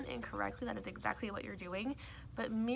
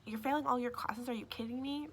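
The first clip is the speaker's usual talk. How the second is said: attacking parent; 3 semitones higher than usual. Acted. Parent pouncing on a teen about failing classes, indignant. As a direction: get on the kid's case, incredulous. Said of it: "instantly get on you about".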